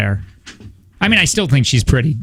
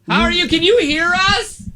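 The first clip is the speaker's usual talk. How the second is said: through a window; 13 semitones higher than usual. Pretend. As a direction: mouth it big through the window. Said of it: "they're talking through a window right now".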